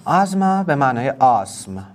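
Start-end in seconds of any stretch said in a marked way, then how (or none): 0.1-0.6 "آزما" with a voiced z in the middle; English word "آزما", buzzing z before the m; pronounced with a z. Shown as a demonstration. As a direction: say "آزما" with a clear z sound, not an s.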